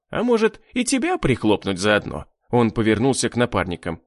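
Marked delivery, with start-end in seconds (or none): 0.1-2.2 smug, toying menace; haughty sneer. A narrator's reading. Torin muses on killing Agnesha too, haughty sneer. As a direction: start high, then drop into the threat. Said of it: "кривился в надменной улыбке Торин".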